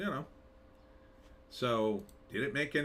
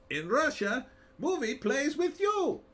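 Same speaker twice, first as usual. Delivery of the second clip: higher, slow put-on Russian accent joke; mock Russian accent; 13 semitones higher, 3 dB louder, slower than usual. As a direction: deliver the Russian reversal gag in a hammy Russian accent.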